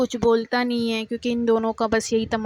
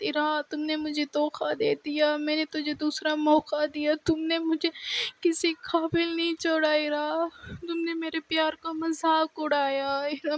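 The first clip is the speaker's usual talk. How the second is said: crying; 4 semitones higher, 4 dB quieter than usual. Retold or imitated. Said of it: "اتنی رو رہی ہوتی ہے".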